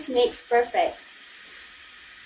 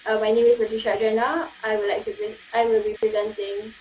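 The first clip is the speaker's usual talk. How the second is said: flat, rushed, droning self-intro; stagnant monotone; 3 semitones lower, 3 dB quieter, faster than usual. Shown as a demonstration. Student shows the dull way to introduce yourself, monotone. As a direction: drone it like a bored presenter. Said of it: "do not use a stagnant voice like this".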